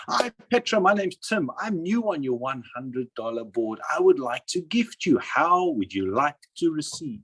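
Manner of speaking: a lightly voiced new member calling the board's top person; polite newcomer's greeting. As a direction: greet a stranger like a keen newcomer offering a gift. Acting out a polite first call.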